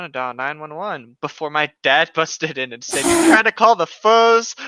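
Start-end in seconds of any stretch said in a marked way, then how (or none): 3.0-4.6 louder and slower, a slurred dad voice; drunk dad. Acted. Dad bursting into the room, a loud slurred dad voice. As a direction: bark it like a high dad bursting in.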